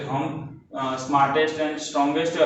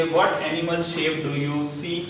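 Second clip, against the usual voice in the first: slow, deliberate read-aloud; textbook reading; much slower than usual. Shown as a demonstration. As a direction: read each English word slowly for the class. Reads activity question. (धीमी आवाज़ में पाठ पढ़ना)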